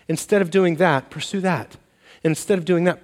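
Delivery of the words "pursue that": softer emphasis. Shown as a demonstration. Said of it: "It's not just don't".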